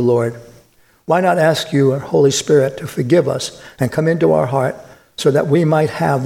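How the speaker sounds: steady, earnest prayer voice; closing prayer. Acted. Pastor praying over the congregation, earnest and steady. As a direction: pray for the congregation gently.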